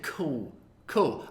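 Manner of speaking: lightly voiced awkward teen; a hint of a tongue-tied thirteen-year-old; awkward teenager. Retelling his lame reply to the ex-president, mildly awkward teenager. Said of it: "regressed to a thirteen-year-old awkward teenager".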